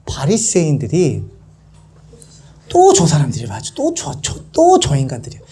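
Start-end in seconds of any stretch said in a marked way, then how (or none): 2.7-5.4 acted scornful grumbling, jumping in pitch; finger-pointing disapproval. Pharisees pointing at the guests, scornful. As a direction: point the finger and tut at them. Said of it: "손가락질 막 하는 거예요".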